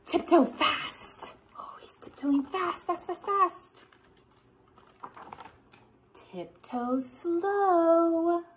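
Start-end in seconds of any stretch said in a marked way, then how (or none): 0.1-1.3 whisper. Acted. 6.1-8.4 slow. Acted.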